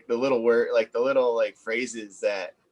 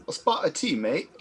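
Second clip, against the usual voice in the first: light mock Australian accent, higher; put-on Aussie accent; 3 semitones higher, 4 dB quieter than usual. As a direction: toss off the line in a jokey Australian accent. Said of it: "he wants the accent".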